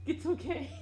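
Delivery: giggling through the words; can't stop laughing. Real, not acted. Laughing at boyfriend's girl voice.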